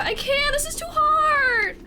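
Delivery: high, strained, breaking voice; defeated by the heat; real crying whine; gasping, near sobbing. Real, not acted. Overwhelmed by spice.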